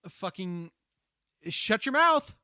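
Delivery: half-joking angry plea to a friend; mock fury. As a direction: snap at a friend in playful outrage.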